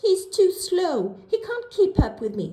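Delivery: high, fast rushed complaint; quick complaining. A narrator's reading. Miss Quick complains to the vet, fast and high. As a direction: rattle it off impatiently. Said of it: "complained little Miss Quick".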